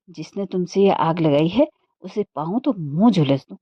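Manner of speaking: wife snapping at her husband in anger; exasperated anger. Acted. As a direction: spit it out in irritation. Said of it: "झुंझलाहट के मारे बदन में ज्वाला".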